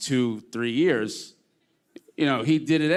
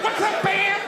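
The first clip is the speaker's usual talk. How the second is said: put-on squeaky old nanny voice, much higher; high mock Mrs Doubtfire voice; 4 dB louder than usual. Comedian imitating Kanye as Mrs Doubtfire, high and cheery. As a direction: play the nanny greeting him in a high falsetto. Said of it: "And he's like".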